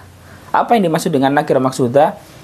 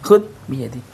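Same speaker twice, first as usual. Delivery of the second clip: pleading call; 6 semitones higher than usual. Shown as a demonstration. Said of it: "ya kan".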